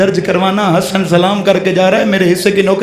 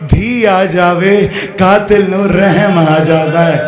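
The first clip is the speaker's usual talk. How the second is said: mournful recitation; 4 semitones lower, slower than usual. Acted. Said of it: "मैं नौकर हूँ आपका".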